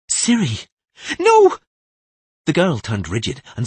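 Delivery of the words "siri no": loud, high shout of alarm; crying out. Acted. Tris shouting to stop Siri. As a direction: stop her with a cry.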